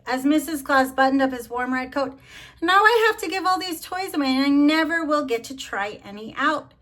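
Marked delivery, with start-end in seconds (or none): 2.6-6.7 higher, fast grumbling Santa; mild mock grumble; grumpy Santa. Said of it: "And he almost scowled".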